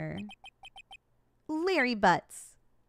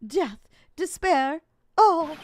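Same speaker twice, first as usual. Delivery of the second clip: dramatic wail; 6 semitones higher, 8 dB louder, slower than usual. Acted. Voicing Larry's wailing despair.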